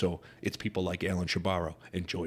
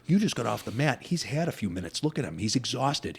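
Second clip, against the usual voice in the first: higher-pitched, insistent retold pep talk; imitating urgent coach; 4 semitones higher than usual. Coach convincing fighter the opponent is exhausted, urgent. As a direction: mimic a coach pushing his fighter.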